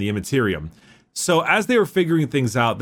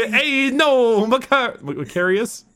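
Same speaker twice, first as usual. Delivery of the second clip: much higher mock-Italian rant, laughing in places; Lorgar as the Fonz; 11 semitones higher, slower than usual. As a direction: swagger into a cartoon Italian tirade. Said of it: "fucking Logar is like".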